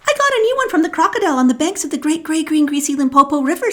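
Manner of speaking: put-on boastful elephant's child. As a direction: show off the new nose quickly.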